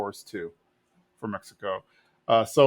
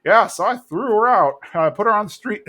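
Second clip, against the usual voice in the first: put-on higher, louder proud old-man brag; boastful Cotton; 8 semitones higher, 5 dB louder than usual. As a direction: brag about it to the boys. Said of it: "he's like".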